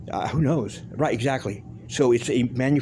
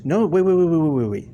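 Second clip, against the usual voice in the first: loud stop; 4 semitones higher, 4 dB louder than usual. Real, not acted. Cutting himself off loudly.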